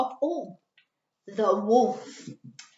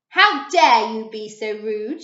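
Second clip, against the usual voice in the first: stern; 8 dB louder than usual. A narrator's reading. Fairy scolding in story.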